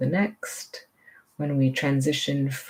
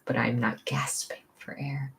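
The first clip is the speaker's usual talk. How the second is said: whisper; 6 dB quieter than usual. Pretend. Inner voice, breath held.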